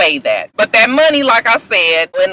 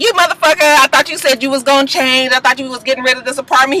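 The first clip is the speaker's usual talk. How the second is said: put-on high, heated girlfriend yell; angry girlfriend; 4 semitones higher than usual. Princess confronts Ray J at party, high angry yell. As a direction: tear into him like a betrayed girlfriend. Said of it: "she is just like".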